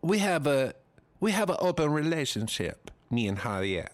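lightly put-on Spanish accent. Voicing Penelope Cruz about her husband, Spanish accent. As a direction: try out a mock Spanish accent. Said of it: "See, now I fucking got it".

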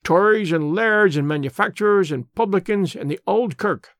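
put-on an old border radical holding forth in broad Scots; lightly voiced Scots elder, earnest and proud; Scots labour man. Old Amos lectures Mister Brand on the war, lightly voiced Scots.

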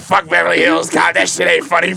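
retold heckler's shout; mock heckling. Heckler shouting at Eddie Murphy at dinner, mock jeering.

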